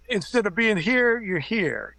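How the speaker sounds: a touch of mock irritation; imitated snap. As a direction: mimic a star losing patience, half-playful. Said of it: "Myers kinda snap at somebody".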